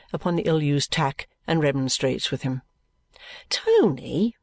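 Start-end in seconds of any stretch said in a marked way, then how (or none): 3.5-4.4 breathy whispered name. Acted. Guppy whispering to his friend Tony, hushed.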